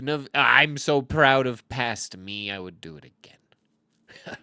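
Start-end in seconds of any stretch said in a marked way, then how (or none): 2.5-4.4 mock sob. Proud of past play.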